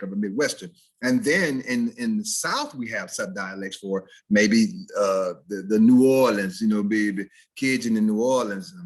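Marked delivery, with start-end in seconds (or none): 5.8-8.7 rough attempt at New Orleans "Nawlins"; badly faked New Orleans accent. Shown as a demonstration. Teacher attempting a Southern subdialect, shaky New Orleans accent. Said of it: "I'm probably murdering it".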